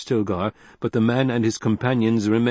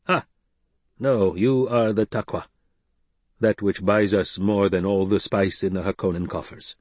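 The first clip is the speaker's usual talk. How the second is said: stern Fremen leader. Acted. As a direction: lay down the law like a tribal chief. Stilgar speaks to Jessica.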